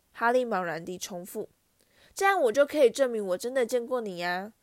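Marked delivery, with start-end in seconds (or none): 2.1-4.5 eager. Acted. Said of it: "科林·克利维渴望地说".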